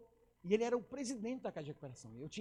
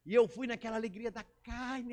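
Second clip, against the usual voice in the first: ordinary talk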